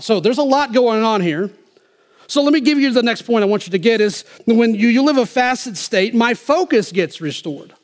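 high-pitched, forceful sermon delivery; impassioned preaching. Real, not acted. Preacher declares scripture to the congregation, impassioned. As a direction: draw out the key words and ring them out.

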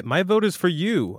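ordinary talk, nothing marked

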